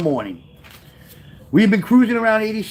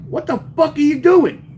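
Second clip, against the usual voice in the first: higher-pitched incredulous demand; raised-pitch "what are you doing" alarm; shocked outburst; 9 semitones higher than usual. Retold or imitated. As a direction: act out a friend's alarmed disbelief. Friends shocked as he climbs out window.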